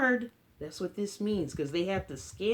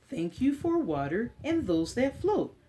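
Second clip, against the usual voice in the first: put-on reading to children. Librarian reading an Earth book to kids, storybook voice. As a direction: read it gently to a class of little ones.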